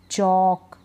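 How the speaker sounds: चॉक with "aw" straight into K; isolated model word चॉक, L left out; silent L. Shown as a demonstration. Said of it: "silent है".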